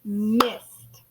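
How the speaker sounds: "Missed" as one held, isolated beat; clapped-out syllable. Shown as a demonstration. Teacher claps syllables with class, "Missed" as one beat. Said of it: "Let's clap it out".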